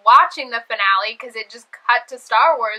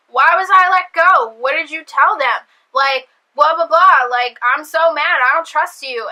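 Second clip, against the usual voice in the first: mock angry rant; 3 dB louder than usual. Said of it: "all pissed off".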